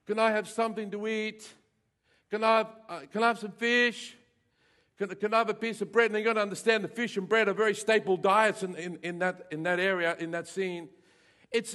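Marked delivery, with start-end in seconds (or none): 0.0-6.1 a lightly voiced child, higher, asking the parent. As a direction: ask for food like a small hungry child. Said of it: "and says".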